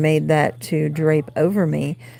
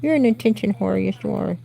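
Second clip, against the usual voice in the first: cooing at cat; 4 semitones higher than usual. Real, not acted.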